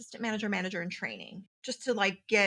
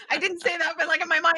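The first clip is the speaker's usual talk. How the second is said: louder, giggling through the words; laughing aside; 7 semitones higher, 7 dB louder, faster than usual. Real, not acted. Telling her friend her secret thought while laughing. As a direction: laugh it out, amused at herself.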